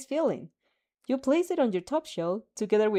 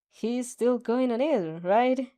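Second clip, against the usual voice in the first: sighing; 3 semitones higher, 3 dB louder, slower than usual. Acted. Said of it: "he sighs".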